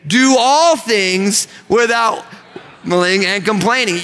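slow, stress on all; said slowly to a neighbour in church; recite to neighbor. Shown as a demonstration. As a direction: say it to the person beside you. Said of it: "look at the person next to you and say".

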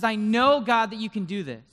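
impassioned declaration to God; expectant faith. Acted. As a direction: hit "I know" hard with total conviction. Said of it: "the expectancy that we said? The faith?".

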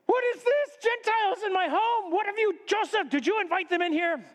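high-pitched indignant scolding; outraged uncle. Acted. Uncle finds Gentiles in his home, outraged.

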